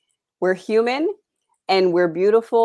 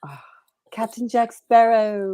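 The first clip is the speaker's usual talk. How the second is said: slow, whispery pirate drawl; Captain Jack Sparrow; 3 semitones higher, slower than usual. Acted. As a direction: draw it out in a breathy Jack Sparrow voice. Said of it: "Johnny Depp".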